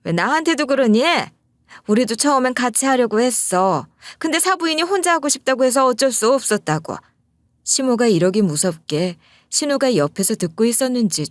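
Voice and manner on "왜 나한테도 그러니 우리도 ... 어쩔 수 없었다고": flaring up. Retold or imitated. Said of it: "확 성질을 내는 거예요".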